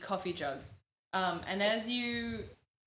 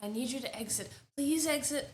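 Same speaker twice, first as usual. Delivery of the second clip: higher-pitched, insistent plea to leave; urgent ushering; 4 semitones higher than usual. Acted. Woman hurrying the intruders out, urgent and insistent. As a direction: firmly usher them toward the exit.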